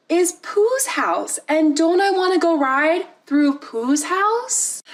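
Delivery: slow, sweetly scheming tease; sly coaxing. Retold or imitated. Mom luring her scared kid, slow and sly. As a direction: lure the kid in with fake sweetness. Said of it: "decides to get a little bit of revenge".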